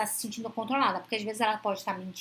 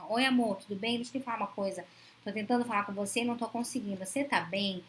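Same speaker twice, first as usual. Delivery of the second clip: caring tone. Retold or imitated. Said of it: "Olha o tom da preocupação".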